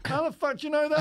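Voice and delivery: high-pitched, incredulous retort; astonished client. Retold or imitated. Client caught out by his therapist, astonished. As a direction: mimic a client stunned at being found out.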